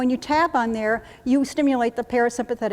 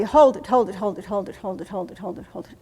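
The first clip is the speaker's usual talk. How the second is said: breath-hold count; 3 semitones lower than usual. Shown as a demonstration.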